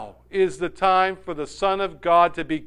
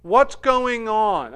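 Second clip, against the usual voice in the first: puzzled question; 8 semitones higher, 6 dB louder, slower than usual. Acted. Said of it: "In other words".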